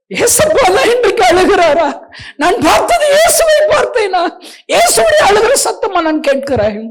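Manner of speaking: high, loud, laughing through sobs; real crying out. Real, not acted. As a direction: cry out overwhelmed, half laughing, half weeping. Overwhelmed by realising it was Jesus.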